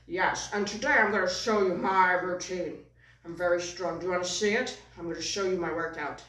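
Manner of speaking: lightly voiced boastful puppet; a touch of strongman puppet swagger; puppet's own voice. Puppet announcing his workout to the audience, lightly put-on boastful voice. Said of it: "he has also his own voice".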